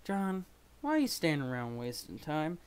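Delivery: full-voiced impatient character line; performed character accent. Character demanding answers from John, voiced in accent. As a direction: deliver it in character, out loud. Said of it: "do the accent".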